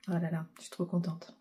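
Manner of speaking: whispered glee, all breath; a real thrilled whisper under the breath; excited whisper. Real, not acted. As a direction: hug the words in a delighted hush. Thrilled aside about the parcel.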